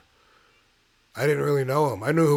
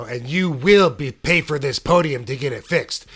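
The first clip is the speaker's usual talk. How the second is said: mock yell; 3 semitones higher, 7 dB louder than usual. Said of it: "yelling at us".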